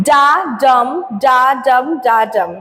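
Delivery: ডা unstressed, ডাম stressed, in even pairs; measured ডা ডাম pairs, each ডা leading into a stressed ডাম; iambic rhythm demo. Shown as a demonstration. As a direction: beat out ডা ডাম as a steady two-syllable pattern. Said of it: "The pattern usually goes like this".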